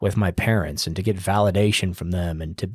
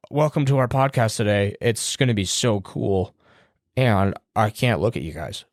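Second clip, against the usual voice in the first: mock awkward host. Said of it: "There's nothing weirder than".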